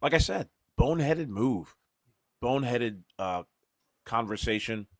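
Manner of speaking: talking while eating; words round a mouthful of food; mouth full. Real, not acted. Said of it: "speaking with food in my mouth".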